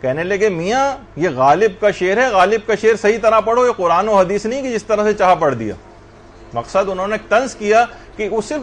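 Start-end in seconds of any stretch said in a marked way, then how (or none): 0.5-5.8 mildly indignant scolding, a little raised; retold annoyed rebuke. Poet's pupil rebuking a careless reciter of Ghalib, retold mild annoyance. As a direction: reproach them with light sarcasm, as if quoting. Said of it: "تو ناراض ہو گئے".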